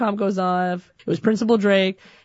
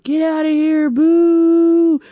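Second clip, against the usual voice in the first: hostile jeering; 8 semitones higher, 4 dB louder, slower than usual. Retold or imitated. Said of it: "the cash register was like".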